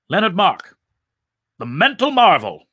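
high, loud announcer flourish; showman's billing. A narrator's reading. Mind-reader quoting his billboards, showman's proclamation. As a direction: proclaim it like a stage act.

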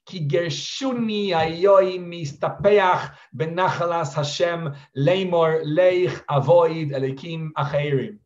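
slow, measured recitation of the Hebrew verse; solemn verse recital. Retold or imitated. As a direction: intone the verse slowly, giving each word weight. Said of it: "he screams the following words".

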